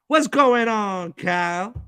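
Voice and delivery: shouted greeting to a guest; calling out. Real, not acted. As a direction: call his name across the room. Calling a guest onto the panel.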